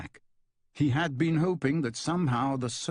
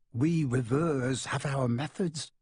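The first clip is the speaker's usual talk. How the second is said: smiling; slower than usual. Acted.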